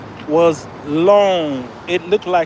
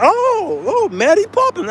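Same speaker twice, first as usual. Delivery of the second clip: much higher, cooing British recognition; mock British delight; 3 dB louder than usual. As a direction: play the delighted waitress. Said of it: "She was like".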